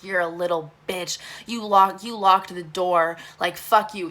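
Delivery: imitating an angry man, leaning loud; retold rage. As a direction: retell his angry insults with some force. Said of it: "angry and very rageful".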